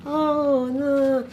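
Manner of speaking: high mock recognition, dismissive; lightly voiced dismissive auntie; community member. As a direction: imitate a relative brushing her off. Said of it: "so it's like".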